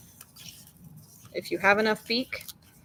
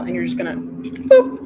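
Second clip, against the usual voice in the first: boop sound; 7 dB louder than usual. Shown as a demonstration. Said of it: "Just for everyone, that was a boop".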